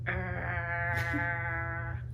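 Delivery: a low imitated cat growl. The cat growling at the door, imitated growl. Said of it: "started going".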